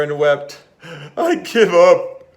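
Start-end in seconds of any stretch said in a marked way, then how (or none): 1.2-2.2 loud, high wail of giving up; blubbering. Acted. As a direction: blubber it out, defeated. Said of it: "he blubbered".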